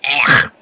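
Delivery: loud grunt of disgust; disgusted "ugh". Real, not acted. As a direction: blurt a short, revolted ugh. Disgust at the taste of alcohol.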